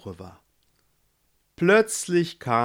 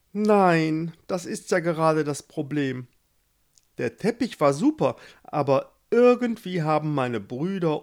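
whiny Gustav; 3 semitones higher than usual. Acted. Gustav tells Itsche his problem. (Gustav jammert hoch und wehleidig über seine Brüder)

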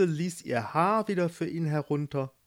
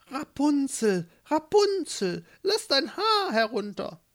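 verstellte Stimme; 12 semitones higher than usual. Acted. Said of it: "einmal mit verstellter Stimme". (mit verstellter, hoher Stimme gedehnt rufen)

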